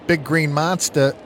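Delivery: put-on dropped r Boston accent. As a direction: toss in a quick Boston accent. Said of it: "I had to throw my Boston accent in there".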